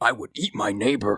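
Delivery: fantasy orc-like monster voice. Imitating a man being discussed, in an orc-like voice. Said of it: "you kind of sound like like an orc".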